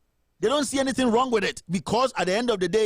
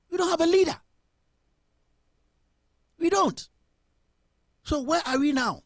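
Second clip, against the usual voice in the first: indignant outcry; 7 semitones higher than usual. Real, not acted. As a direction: cry out that there is no leader. Outraged rant about the government.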